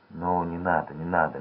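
put-on calm a frightened girl gently; gentle. A narrator's reading. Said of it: "мягко произнёс он". (мягко, тише, успокаивая)

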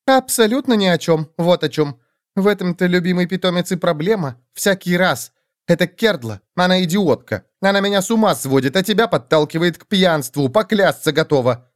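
quick, petty little reptile voice; lizard voice. Acted. Lizard skeleton chattering. (писклявый голосок ящерки)

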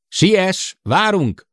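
high, loud urging shout; urgent call. A narrator's reading. Sid urging Jill to hurry back. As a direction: hurry her along, calling out.

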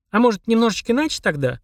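put-on high, tentative little-girl voice; timid. A narrator's reading. Машка suggests other terms to the demon, timidly. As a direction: venture it shyly, as a cautious suggestion. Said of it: "робко предложила Машка".

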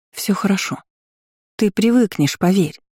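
good-natured reassurance. A narrator's reading. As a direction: reassure her with a kindly smile. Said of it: "добродушно улыбалась она". (добродушно успокаивая, повыше)

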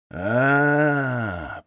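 low, long understanding aah; knowing drawn-out aah. A narrator's reading. Mitka drawls a knowing aah at the old man. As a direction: stretch the sound as it dawns on him. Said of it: "понимающе протянул Митька".

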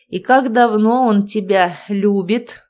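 grim. A narrator's reading. Father questions pregnant daughter about her boyfriend, grimly. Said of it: "мрачно спросил Толик".

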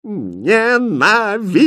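high, loud, drawn-out shriek of hate; outraged court lady; furious wail. A narrator's reading. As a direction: shriek it slowly, stretching each syllable. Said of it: "завопила гофмистерина".

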